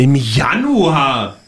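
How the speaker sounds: drawn-out, incredulous question; slow, astonished repeat; incredulous echo. Real, not acted. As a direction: stretch it out in disbelief. Incredulous echo of the release date.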